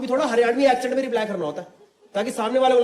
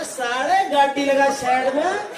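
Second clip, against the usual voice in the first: Haryanvi threat; 3 semitones higher, slower than usual. Retold or imitated. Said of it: "कह रहा".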